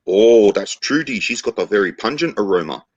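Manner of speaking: put-on knowing Maori chief in a Kiwi accent; New Zealand accent. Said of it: "New Zealand accent there".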